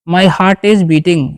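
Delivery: very slow, word by word, for learners; slow dictation pace; slow model sentence. Shown as a demonstration. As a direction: spell it out slowly for the class. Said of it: "teacher models English sentence".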